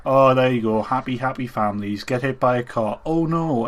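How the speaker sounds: hammed-up retelling of a corny plot; mock melodrama. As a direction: overplay the happy tale, then the dismay. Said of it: "it's really melodramatic".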